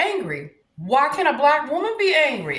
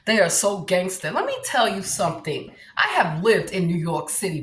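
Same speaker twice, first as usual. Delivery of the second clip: lightly put-on New York accent, pitched lower; 4 semitones lower than usual. Shown as a demonstration. Comedian answering Brooklyn gangster types, New York accent. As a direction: do a tough, low New Yorker accent. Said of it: "here's my New York voice".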